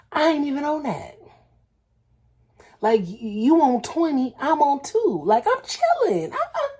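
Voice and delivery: high, breaking into laughter; laughing self-quote. Retold or imitated. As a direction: laugh through the words. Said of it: "I said".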